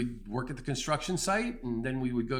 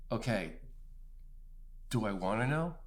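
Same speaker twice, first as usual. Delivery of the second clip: softer, hesitant and awed; scared quiet reply; 4 semitones lower, 7 dB quieter than usual. Retold or imitated. Frightened man answering God on the hill: soft hesitant awe. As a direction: pull back, unsure and afraid.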